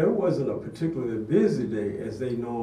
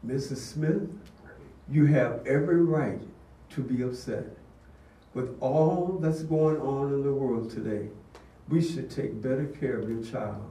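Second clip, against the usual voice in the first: calm, steady, reassuring words; calm low tone. Retold or imitated. Vice principal calms the furious mother, calm and low. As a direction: soothe her gently. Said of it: "I said in a calm, low tone of voice".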